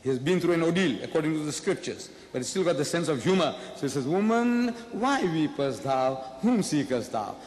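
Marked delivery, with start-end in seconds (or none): 4.1-7.4 solemn scriptural Jesus. Acted. Preacher voicing Jesus to the weeping woman, slow and solemn. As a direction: intone it like Jesus in the King James.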